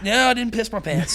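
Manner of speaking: usual speaking voice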